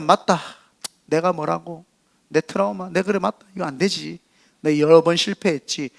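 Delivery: quiet, mildly dejected thinking aloud; imitated defeated self-talk. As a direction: voice someone giving up on themselves. Voicing inner defeated self-talk.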